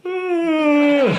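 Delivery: long, high-pitched yawn noise; exaggerated yawn, held high and droning; noisy yawn. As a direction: imitate an obnoxiously audible yawner. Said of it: "He kept yawning out loud".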